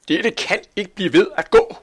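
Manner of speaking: high, loud protest; shouting. A narrator's reading. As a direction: shout it in indignation. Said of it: "råbte slagteren". (højt, vredt råb)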